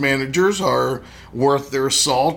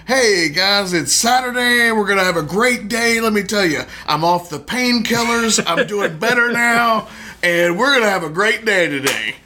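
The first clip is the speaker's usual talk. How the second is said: mock GM; 4 semitones higher than usual. Mocking a hungover GM.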